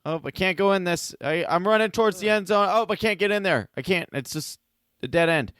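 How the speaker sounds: high-pitched mock helpless player; Julio Jones. Mocking a star receiver who can't score, high helpless impression. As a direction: act out a hapless receiver, pitched well up. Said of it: "he's just like".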